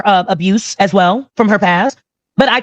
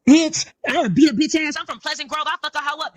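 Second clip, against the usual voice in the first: imitating Kitty; 4 semitones higher, 3 dB quieter than usual. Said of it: "Kitty talk like this".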